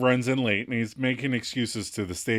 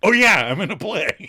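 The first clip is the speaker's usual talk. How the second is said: playful Joey voice; 6 semitones higher, 7 dB louder than usual. Retold or imitated. Joey answers casually.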